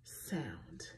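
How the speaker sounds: whispered hissing "S sound"; soft teacher's hiss on "S sound". Shown as a demonstration. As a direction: breathe out a long sss on "S sound". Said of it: "words that make the S".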